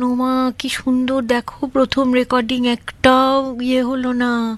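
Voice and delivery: imitating sweet, delighted praise; retold sweet admiration. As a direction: coo it sweetly, drawing out the words. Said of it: "ভীষণ মিষ্টি করে বললেন".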